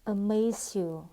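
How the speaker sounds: "amaze you" run together as one word; "amaze you" with no gap between the words; linked sounds. Shown as a demonstration. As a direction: join the z of "amaze" onto "you". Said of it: "Nối âm".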